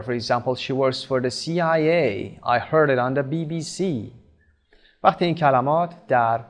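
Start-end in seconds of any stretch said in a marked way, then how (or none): 0.5-2.1 C I A with the final A stressed; stress on last letter. Shown as a demonstration. Teacher giving an example, stressing the last letter A. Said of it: "the stress falls on the last letter". 2.5-3.8 B B C with the final C stressed; stress on last letter. Shown as a demonstration. Teacher giving an example, stressing the last letter C. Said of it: "the stress falls on the last letter".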